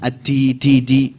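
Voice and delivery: "Ad-di" with a puff of air after D, like "ti"; breathy D fault. Shown as a demonstration. Teacher showing hames fault, "di" with escaping air. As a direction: aspirate each "di" towards "ti". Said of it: "Jangan ada kuahnya".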